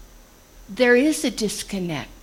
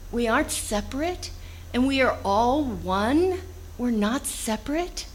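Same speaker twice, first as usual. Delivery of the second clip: mildly exasperated, imitated appeal; frustrated; 2 semitones higher than usual. Jesus to disciples who don't understand, mildly frustrated. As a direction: voice understated frustration, as if explaining it yet again. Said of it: "he's so frustrated, and you can hear that".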